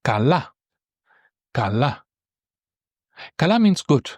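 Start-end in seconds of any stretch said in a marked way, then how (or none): 0.0-0.5 Kala with stress on the first a; Greek kala. Shown as a demonstration. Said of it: "Try to pronounce it yourself". 1.5-2.0 Kala with stress on the first a; Greek kala. Shown as a demonstration. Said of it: "Try to pronounce it yourself".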